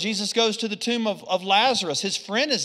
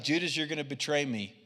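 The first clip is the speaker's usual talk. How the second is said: much lower and softer, grave and knowing; quiet rebuke; 7 semitones lower, 6 dB quieter, faster than usual. Retold or imitated. Preacher voicing Jesus quietly confronting Judas. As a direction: speak it low, like a hushed verdict. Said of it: "He's like".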